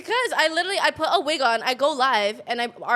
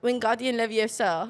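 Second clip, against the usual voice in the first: put-on British-accented incantation; Hermione. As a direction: recite the spell in a British accent. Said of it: "Sound like fucking Hermione".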